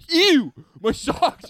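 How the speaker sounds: grossed out at the wet socks; mock disgusted whine; retold disgust. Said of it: "I'm like".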